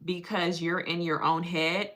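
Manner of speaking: measured mock-therapist voice. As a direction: lightly play a patient, measured therapist. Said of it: "she be looking at me like".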